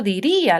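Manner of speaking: "diría" with the stress on the í. Shown as a demonstration. Teacher giving an example of a strong i, "diría" with stressed í. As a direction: lean on the í of "diría", split from the a. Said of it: "se pronuncian con fuerza".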